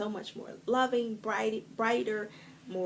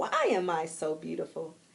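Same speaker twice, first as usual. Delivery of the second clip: beaming, enthusiastic, bright, smiling, unhurried voice; 4 semitones lower than usual. Demonstrating a self-affirmation said in the mirror, with a bright smiling voice. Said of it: "my smile was a little bit brighter".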